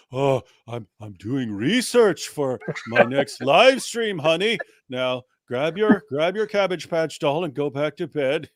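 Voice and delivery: a hint of a caught-out husband making excuses; lightly voiced flustered Daniel. Daniel excuses himself and sends his child bride to bed, mock-innocent. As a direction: stall with drawn-out, halting excuses, lightly acted.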